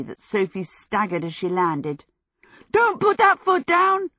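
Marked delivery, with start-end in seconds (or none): 2.7-4.1 high, loud yell of alarm; yelled warning. Acted. Michael yells at Sophie to stop, loud alarmed yell. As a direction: shout it to stop her in time. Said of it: "Michael yelled".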